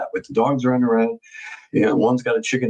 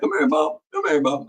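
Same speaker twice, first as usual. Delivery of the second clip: calling the dog; 5 semitones higher than usual. Retold or imitated. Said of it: "He's like".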